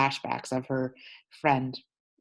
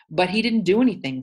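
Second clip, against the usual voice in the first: higher, louder outcry; boy shouting at the cops; desperate protest; 5 semitones higher, 6 dB louder than usual. Acted. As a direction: protest the injustice loudly.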